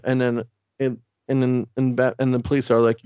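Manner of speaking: ordinary delivery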